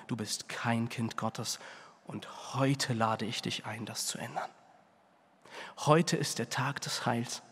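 hushed, earnest evangelistic appeal; quiet altar call. Acted. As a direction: lean in and plead gently for the heart. Soft personal altar call.

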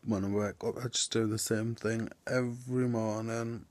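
barely voiced, just-woken whisper; a groggy morning whisper; sleepy whisper. Real, not acted. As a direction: breathe it out half asleep.

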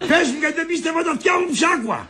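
irate husband demanding an answer; angry shouting. Acted. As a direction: shout it in outraged disbelief. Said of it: "μη φωνάζεις".

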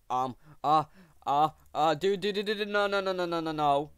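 high, loud panicked nos; panicked shrieking. Real, not acted. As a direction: shriek as it all goes wrong. Monster grabs teammate, panic.

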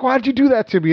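high, pleading whine; high-pitched aggrieved whimper; whiny complaint. Retold or imitated. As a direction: whine it like the wronged officer. Major whining after getting chewed out.

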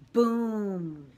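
loud, booming mock blast; explosion sound. A narrator's reading. Narrator imitating the blast of the bus, loud boom. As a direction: voice the bag exploding. Bag explodes mid-sentence.

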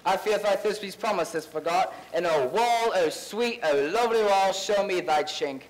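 grandly overacted Bottom speech; hammy Shakespeare. Actor hamming Bottom to liven up the play. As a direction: ham it up as a bad Bottom.

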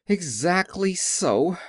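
high, drawn-out agreement; pleased. A narrator's reading. The little man owns up, slow, high and pleased. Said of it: "as if it pleased him".

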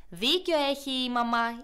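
light chorus of small hedgehogs; little hedgehogs together. Acted. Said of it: "είπανε και τα άλλα".

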